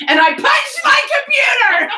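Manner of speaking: high, loud words through laughter; laughing at her own story. Real, not acted. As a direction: crack up while saying it. Laughing while telling punchline.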